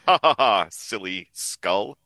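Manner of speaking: mock laugh, then slowing down; Spock. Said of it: "Spock way to view a joke".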